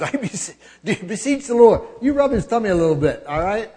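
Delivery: high, mocking voice, poking fun at the priests; sarcastic mock question. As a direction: sneer at them as if they could sweet-talk God. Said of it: "there's a lot of sarcasm in that".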